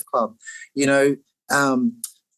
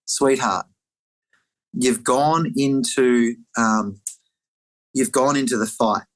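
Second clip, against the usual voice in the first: gentle inner voice; 2 semitones lower, slower than usual. Retold or imitated. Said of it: "this really clear voice go".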